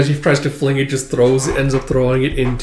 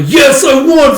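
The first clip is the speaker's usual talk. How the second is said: much higher, louder victory cheer; kid cheering; 12 semitones higher, 9 dB louder, slower than usual. Retold or imitated. Boy cheering his win, high gleeful shout.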